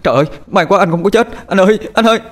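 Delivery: high, loud shouts of relief; joyful cry. Acted. Younger brother finding his brother alive, cheering. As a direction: cry out overjoyed. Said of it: "Thằng Tế reo lên".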